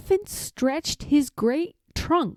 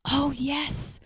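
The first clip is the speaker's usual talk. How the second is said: softer, higher tiny piping voice; a hint of a tiny piping voice; piped reply; 4 semitones higher, 6 dB quieter than usual. A narrator's reading. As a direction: pipe it up like a speck-sized person. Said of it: "piped the voice".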